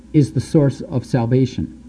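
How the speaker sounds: usual speaking voice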